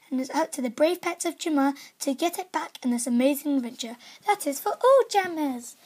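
upbeat announcer read; lively game-news announcer. Acted. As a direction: sell each line like an ad. Reads game news aloud.

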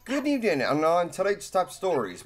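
mock news anchor intro; lightly hammed evening news read; newscaster voice. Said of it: "imagining Maddie in news network uniform".

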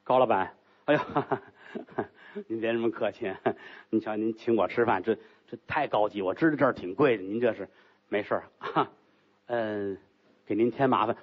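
bow and scrape to the guest; flustered host. Acted. Host Gao fawns over his guest, embarrassed.

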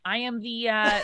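normal talking voice

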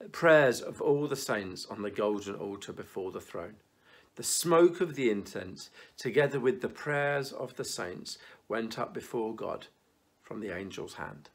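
measured Bible reading with long pauses; solemn reading to the congregation; scripture reading. Acted. Reads Revelation aloud.

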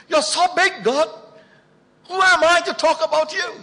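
high, loud, pleading complaint to the Lord; grumbling to God. Retold or imitated. Preacher complains to God about having to preach, high pleading whine. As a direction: whine it up to heaven, overwhelmed.

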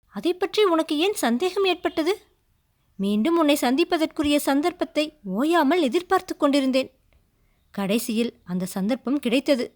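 lightly voiced earnest prince asking; gently probing lover; lightly voiced questioning prince; prince's voice. Prince reassures maiden.

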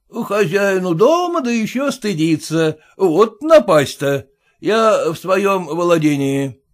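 blunt merchant scoffing at formality; gruff merchant. Acted. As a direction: push in like the owner. Merchant asserts ownership.

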